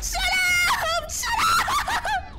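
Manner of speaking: hysterical screaming. Real, not acted. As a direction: scream at it at the top of your pitch. Screaming at the noisy creature.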